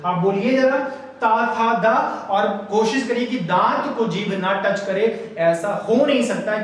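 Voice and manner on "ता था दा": ता, था, दा with tongue touching the teeth; dental consonants demonstrated. Shown as a demonstration. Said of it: "दांत को हमारी जीभ टच करती है".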